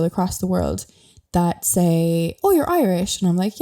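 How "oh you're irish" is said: high, louder imitating gushing tourist; mock eager tourist. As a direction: parody an excited traveller. Mimicking tourists she meets.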